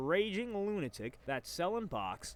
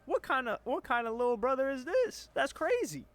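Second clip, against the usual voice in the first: outraged disbelief; 9 semitones higher, 5 dB louder than usual. Real, not acted. Outraged reaction to betrayal.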